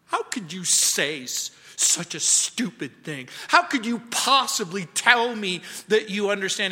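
mildly heated, incredulous rebuke; lightly acted outrage, building as it goes; acted indignation. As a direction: imitate an upset patient rebuking the surgeon. Soldier angrily rebukes the surgeon.

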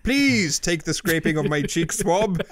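attempted British accent for Kasparov. Podcaster voicing Kasparov offering his cheek swab, mock British accent. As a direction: put on a mock British accent, drawn-out pleading at times. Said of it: "I did a British accent".

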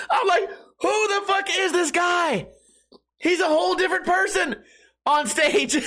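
high laughing yell of disbelief. Real, not acted. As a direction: crack up while yelling the question.

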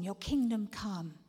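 your kingdom come, slow and steady; slow prayer. Shown as a demonstration. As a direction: pray kingdom come slowly.

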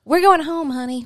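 put-on upbeat grandma telling the child it's time to go; cheerful firm reply. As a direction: sing it out to settle the toddler. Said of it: "and she says".

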